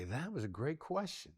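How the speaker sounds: eager rising praise; bright high take. Shown as a demonstration. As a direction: lift the pitch up, rising on question. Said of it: "I could say".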